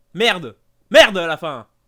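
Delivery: loud, unconvincing angry outburst with swearing.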